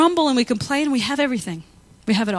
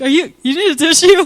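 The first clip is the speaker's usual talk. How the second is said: concerned barista; 7 semitones higher, 9 dB louder than usual. Retold or imitated. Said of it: "they're like".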